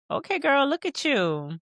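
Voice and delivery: excited friend. Acted. Friend cheering Issa on.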